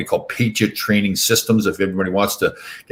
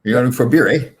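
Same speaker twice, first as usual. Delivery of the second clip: put-on Canadian accent; 4 semitones higher than usual. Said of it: "At the end of every sentence, you say "Hey".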